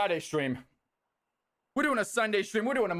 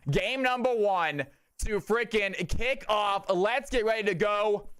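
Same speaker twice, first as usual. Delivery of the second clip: slow hype build. Acted. Streamer hyping chat for game one, slow and drawn out. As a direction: stretch each word out like an announcer.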